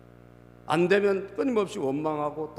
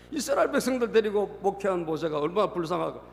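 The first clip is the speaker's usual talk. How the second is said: higher voice through laughter; laughing; 4 semitones higher than usual. Real, not acted. Preacher pitying Moses to the congregation, laughing.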